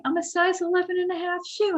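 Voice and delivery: high, quick, whispery lady impersonation. Retold or imitated. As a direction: confide it in a put-on high whispery voice. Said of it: "like, whispery voice".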